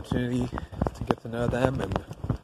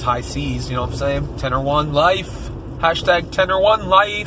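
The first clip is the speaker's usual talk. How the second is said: mock high notes; 5 semitones higher, 4 dB louder than usual. Joking about hitting high notes.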